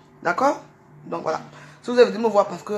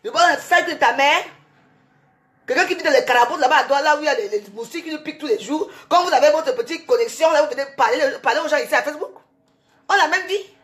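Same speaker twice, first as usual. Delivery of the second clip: angry outburst; 4 semitones higher than usual. Real, not acted. Renewed insults at troll.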